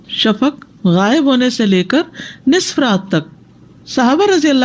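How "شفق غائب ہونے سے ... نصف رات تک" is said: slow and phrase by phrase; teacher repeating the dictation. Shown as a demonstration. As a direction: repeat it slowly in two chunks. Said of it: "repeat for dictation".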